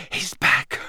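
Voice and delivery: breathless whispered news. Acted. Harry whispering to Dumbledore from the grass. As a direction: whisper it, barely there. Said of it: "Harry whispered".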